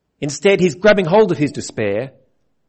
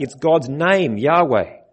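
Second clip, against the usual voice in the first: ordinary talk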